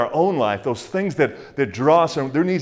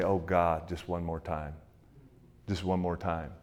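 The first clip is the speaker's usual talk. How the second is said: soft, small begging voice, much quieter; hushed pleading; 6 semitones lower, 10 dB quieter than usual. Retold or imitated. Samson quietly begging God for one more time, hushed plea. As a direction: plead under your breath for one more chance.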